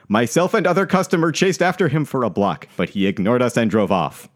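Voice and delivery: formal, emphatic email reading; complaint read aloud. Acted. Rider reads his email to the transit authority, formal complaint. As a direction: read it out like an official grievance, slightly indignant.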